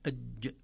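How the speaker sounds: أج cut off sharply on the jim; firm jim in أج; stopped jim. Shown as a demonstration. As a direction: jim closed hard in أج. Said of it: "نقول".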